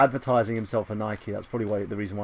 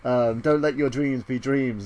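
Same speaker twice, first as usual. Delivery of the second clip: slow quote; slower than usual. Retold or imitated. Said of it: "And he's like".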